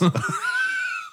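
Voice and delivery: high burst of laughter. Real, not acted. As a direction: shriek with laughter. Cracks up at joke.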